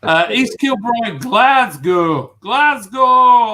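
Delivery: high, loud chant of the city; calling out. Pretend. Shouting out Glasgow to the stream, loud and cheering.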